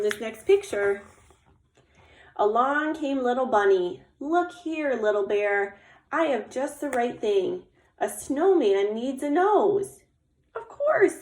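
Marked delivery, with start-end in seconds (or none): 2.4-10.0 animated read-aloud with lifted character greeting; story narration. A narrator's reading. Little Squirrel offers eyes for the snowman, animated storytelling. Reads picture book aloud. 10.5-11.2 very high, delighted agreement; delighted Little Bear. Acted. Little Bear accepts the bunny's carrot, high delighted reply.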